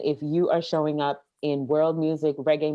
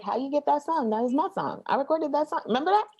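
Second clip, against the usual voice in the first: mock indignant; 11 semitones higher, faster than usual. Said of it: "soca artists were like".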